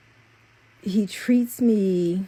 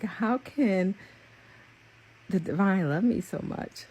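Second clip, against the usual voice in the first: real touch of emotion while marvelling at being loved; moved, in wonder at being so loved; getting emotional; 3 semitones higher than usual. Real, not acted. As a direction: let real feeling creep into the questions. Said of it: "I'm getting emotional".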